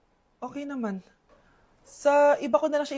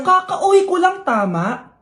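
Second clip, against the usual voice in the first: louder, exasperated complaint; irritated; 4 dB louder, slower than usual. Acted. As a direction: snap at the partner. Annoyed at partner over research. (inis na reklamo)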